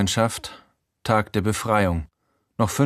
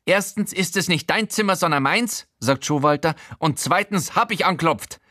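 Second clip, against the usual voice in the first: high odd character voice; higher, fussy man correcting; Showalter's voice; 8 semitones higher than usual. Acted. Showalter correcting the narrator, higher character voice.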